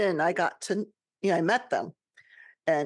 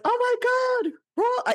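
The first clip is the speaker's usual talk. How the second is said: much higher, choked-up exclamation; high tearful gasp of surprise; retold tearful cry; 3 dB louder, faster than usual. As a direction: relive the moment of tears of recognition. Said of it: "I started crying".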